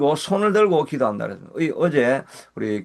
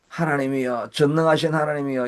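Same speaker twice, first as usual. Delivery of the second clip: formal prayer address. Shown as a demonstration. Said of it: "이렇게 하다가".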